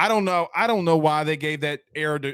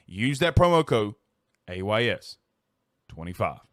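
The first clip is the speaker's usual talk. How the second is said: ad read. Acted. Reads a sponsor ad.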